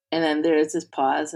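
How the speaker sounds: usual speaking voice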